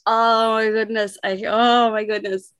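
gushing with excitement, slightly overcome; breathless fan delight, held just in check; excited. Real, not acted. Guest asked to bring the excitement, excited. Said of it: "I can feel the excitement".

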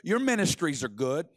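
low, reassuring seer's voice; Bob Jones. Acted. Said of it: "I've heard Bob Jones's voice".

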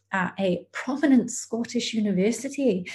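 a bad, lightly done Scottish accent; terrible Scottish accent. Telling the host about her master's, in a half-hearted Scottish accent. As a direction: slip into a mock Scottish accent, badly. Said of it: "That was a terrible Scottish accent".

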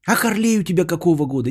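normal talking voice

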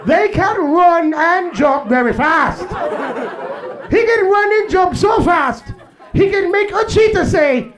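stuffy white narrator studying wildlife; white documentary narrator. Retold or imitated. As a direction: narrate like a nature show host. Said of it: "The white guy be like".

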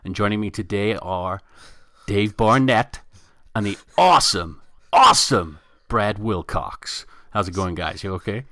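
put-on host intro in a hammy American accent. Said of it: "what accent is that".

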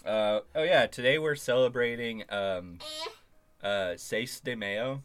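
loud upbeat show opener; hype host. Pretend. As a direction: announce it with fake hype. Mock hype intro.

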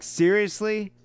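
high incredulous seriously; disbelieving, pitched right up. Retold or imitated. Incredulous quote of himself.

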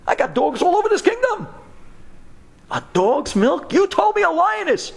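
high, fast, outraged pitch; indignant king. Acted. King outraged at being brought dog's milk. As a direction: bristle with offended disbelief.

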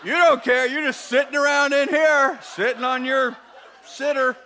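hammed-up evangelist, fed up with sitting still; impatient evangelist. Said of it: "they're like".

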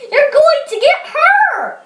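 high-pitched story yell; urgent acted holler; brother's yell. A narrator's reading. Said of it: "yelled his brother Austin".

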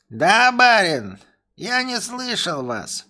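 high, slow, dopey voice; dim-witted servant. Acted. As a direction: play dumb for the master. Servant playing dumb to master.

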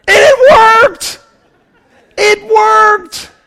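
high and loud, laughing it out; preacher laughing at how the bride's nagging worked; laughing exclamation. Real, not acted. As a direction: crack up as you land the punchline. Punchline of the bride story.

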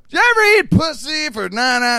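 a mock filthy emcee line; imitating the MC. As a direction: bark it like a sleazy MC.

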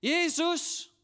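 full-force, high cry for help; loud, high re-enacted shout. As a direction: yell it out like a desperate blind beggar. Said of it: "han råbte bare endnu højere".

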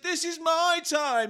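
high, slow solemn proclamation; hammed-up triumph; grand declaration. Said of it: "And I said".

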